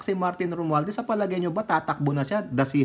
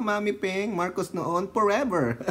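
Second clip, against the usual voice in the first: usual speaking voice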